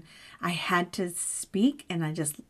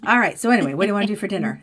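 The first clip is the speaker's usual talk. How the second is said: quick, loud and breezy, all over it; husband instantly over his anger, asking about dinner breezily; breezy switch to cheerful; 6 dB louder, much faster than usual. Retold or imitated. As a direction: toss it off fast like nothing happened. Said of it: "So he's like".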